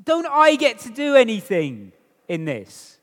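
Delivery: high, fast protesting voice; mock questioner. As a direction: voice a doubter pleading to do something. Voicing a questioner objecting.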